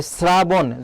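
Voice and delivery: শ্রাবণ said slowly with a hissed s; demonstrated pronunciation. Shown as a demonstration. Teacher shows students how শ্রাবণ sounds, slow and careful. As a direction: say শ্রাবণ slowly, starting on a dental "sr". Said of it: "যখন আমরা শ্রাবণ উচ্চারণ করছি".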